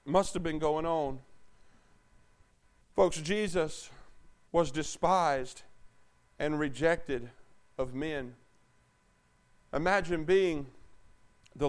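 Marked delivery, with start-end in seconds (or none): 3.0-8.4 soft, slow and grave; hushed preaching. Acted. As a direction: drop to a near-hush for the weight. Hushed sermon moment.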